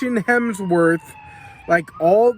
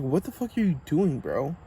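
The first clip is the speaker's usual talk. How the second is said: muttered retort; 5 semitones lower, 8 dB quieter than usual. Retold or imitated. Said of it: "I was like".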